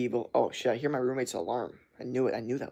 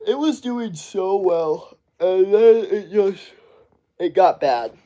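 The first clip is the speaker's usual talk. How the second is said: loud, slow, higher exasperated complaint; 6 semitones higher, 7 dB louder, slower than usual. Real, not acted. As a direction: drag it out in disbelief. Streamer complaining stream went bad.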